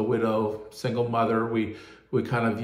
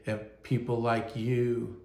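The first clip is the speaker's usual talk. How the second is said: usual speaking voice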